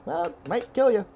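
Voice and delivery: high, loud hammed-up warning; mock-sinister server; ominous waiter. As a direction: play the doom for laughs.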